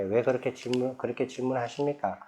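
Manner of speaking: quiet, courteous counter-question; dignified gentle question. Retold or imitated. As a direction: ask it with the Buddha's composure. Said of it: "부처님처럼 점잖하게".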